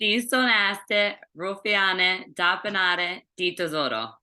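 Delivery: "Distonate, ruffiane, tapenade, di tesoro" said slowly and carefully, each word apart; slow repeat. Shown as a demonstration. Repeating grandmother's words slowly for the host. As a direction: spell the words out slowly for him. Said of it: "Say that again?".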